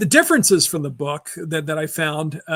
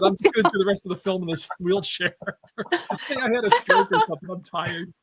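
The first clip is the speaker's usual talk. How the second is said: lazy actor voice; 3 semitones higher than usual. Acted. Imagined actor quote, laughing.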